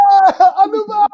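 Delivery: high, loud delighted cry of the name; hammed-up rapture over a poet; a burst of put-on delight, high; mock excited cry.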